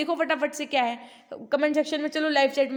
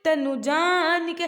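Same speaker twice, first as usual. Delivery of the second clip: pitch easing down; 3 dB louder, slower than usual. Shown as a demonstration. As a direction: let तनु जानिके settle down, drawn out. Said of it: "उसकी pitch धीमे हो गई". (तनु जानिके को उतरते सुर में खींचकर)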